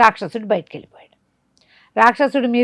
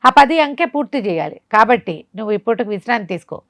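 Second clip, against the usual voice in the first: sorcerer ordering; 3 semitones higher, 3 dB louder than usual. Acted. Sorcerer scolds and plans sacrifice.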